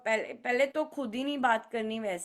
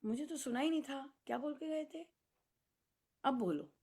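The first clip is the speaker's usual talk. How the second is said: mock innocent; 9 dB quieter than usual. Pretending not to hear child.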